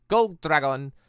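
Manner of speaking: ordinary talk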